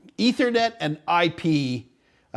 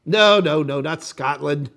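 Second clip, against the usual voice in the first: imitated Irish accent; slower than usual. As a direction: protest like an Irish friend, lightly accented. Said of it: "with the thick Irish accent".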